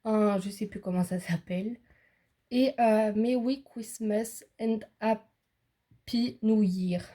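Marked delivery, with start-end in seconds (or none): 3.1-7.0 slow, careful English with a French accent. Real, not acted. Reading the card's English greeting aloud, slow French-accented English. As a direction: spell out the English words slowly in a French accent. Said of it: "Excusez-moi pour l'anglais".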